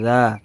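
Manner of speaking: "রা" said as a light, soft "dhaa"; tongue tip drawn lightly off the upper teeth on "রা"; soft dhal sound. Shown as a demonstration. Teacher shows students the letter dhal, soft dhal sound. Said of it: "হালকা করে".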